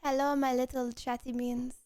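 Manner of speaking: put-on French accent. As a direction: speak English with a French accent. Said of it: "The accent starts when I start".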